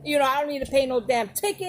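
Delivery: mock irritated grumble, bursting in high then settling; angry. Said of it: "He's angry. He's saying".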